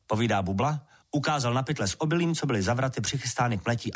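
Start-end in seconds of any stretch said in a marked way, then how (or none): none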